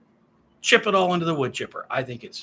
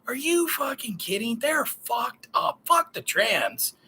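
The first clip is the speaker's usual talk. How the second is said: slow, higher, scornful dismissal of the question; a hammed-up tough-guy brush-off, drawn out; mock blunt retort; 5 semitones higher, slower than usual. What he should have told the interviewer, mock scornful. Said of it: "instead of saying".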